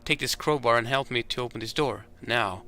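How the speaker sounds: lightly voiced old factory hand ordering a boy around; a hint of a tough foreman losing patience; gruff veteran. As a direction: bark orders at the tired kid. Veteran worker orders young man.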